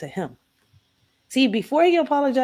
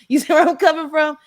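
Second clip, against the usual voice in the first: laughing, higher and louder; mother laughing as she finishes the fight story; laughing through words; 7 semitones higher, 5 dB louder than usual. Real, not acted. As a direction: let a real laugh spill over the words. Laughing while retelling the fight.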